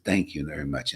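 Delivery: snake's thanks. Retold or imitated. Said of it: "the snake says".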